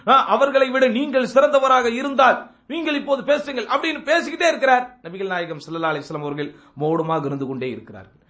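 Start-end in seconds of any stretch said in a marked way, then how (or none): none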